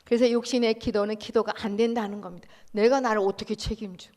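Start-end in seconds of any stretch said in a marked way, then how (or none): 2.7-4.1 scoffing question. Acted. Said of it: "죽은 나가 나를 어떻게 책임져요".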